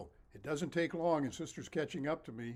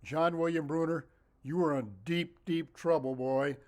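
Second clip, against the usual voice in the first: angry shout; 3 semitones higher, 7 dB louder than usual. Retold or imitated. A nun yelling at a boy running out the door, loud and angry. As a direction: call out his full name like a furious nun. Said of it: "and Sister said".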